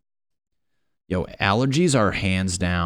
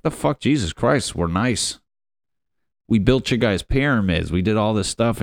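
raised-pitch comic protest; mock indignant; 4 semitones higher than usual. Alien protesting how humans portray them, mock indignant. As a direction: protest as a wronged alien, half-joking.

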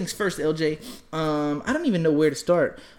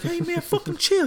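mock old man; 14 semitones higher than usual. Second man replying in argument.

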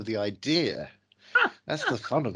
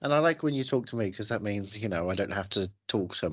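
talking with a mouthful; words round a bite of food; mouth full. Real, not acted. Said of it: "I've got my mouth full already".

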